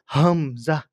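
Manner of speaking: হামজা with a throat catch; hamza. Shown as a demonstration. Teacher demonstrates the letter হামজা, clipped at the throat. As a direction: start হামজা with a glottal stop. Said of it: "এইভাবে কি করতে হবে".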